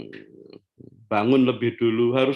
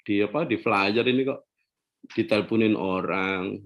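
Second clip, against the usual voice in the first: mock husband reply; 7 semitones lower, 5 dB quieter than usual. Husband answers wife in story.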